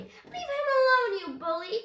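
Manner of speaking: high, loud outcry; indignant cry. A narrator's reading. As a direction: cry out at a bully, pitch soaring. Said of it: "she cried".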